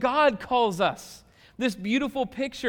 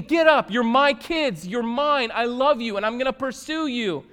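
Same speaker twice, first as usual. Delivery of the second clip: raised, urgent preacher's voice; higher, loud declaration easing toward the end; impassioned calling; 4 semitones higher, 4 dB louder than usual. Retold or imitated. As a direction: open on a shout, then press on fervently. Jesus calling his children, acted.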